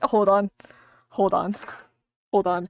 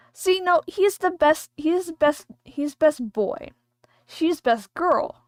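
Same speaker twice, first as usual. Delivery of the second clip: emphatic insisting; 6 semitones higher, 5 dB louder, slower than usual. Real, not acted. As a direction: insist firmly. Insisting on best boy.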